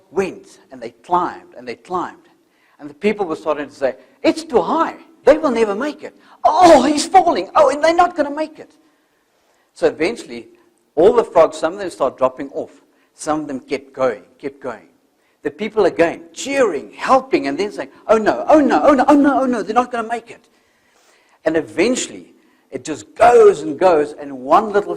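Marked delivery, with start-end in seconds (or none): 4.2-8.8 high, loud cries of a worried crowd; the crowd watching the frogs, crying out in high alarm; doubting crowd. Acted. 18.1-20.5 high, loud cries of a worried crowd; the crowd watching the frogs, crying out in high alarm; doubting crowd. Acted.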